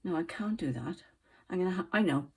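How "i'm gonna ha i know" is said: pins in mouth. Real, not acted. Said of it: "I had a pin in my mouth".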